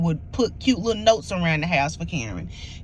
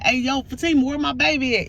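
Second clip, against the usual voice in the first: higher, calling out across the house, half-hearted; mock yelling; 5 semitones higher than usual. Boyfriend shouting through the house for his girl, mock yell. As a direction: call out playfully for his girl, raised pitch. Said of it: "he's yelling all up through the house".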